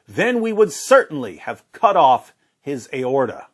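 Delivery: aorta leaned on hard at the end of the verse; heavy emphasis on aorta. Real, not acted. Reading the verse aloud in a debate, leaning on aorta. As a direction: land hard on aorta as the punchline. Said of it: "you put so much emphasis on the word aorta".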